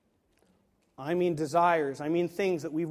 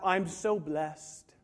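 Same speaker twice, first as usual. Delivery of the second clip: slow, understated humility; mock humble; much slower than usual. Person asked for a Christmas list, mildly mock humble. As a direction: draw out a modest reply lightly. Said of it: "We're trying to be humble again".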